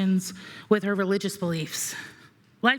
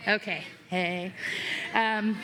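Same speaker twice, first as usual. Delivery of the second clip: blubbering; 5 dB quieter, slower than usual. Real, not acted. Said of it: "I'm a mess right now".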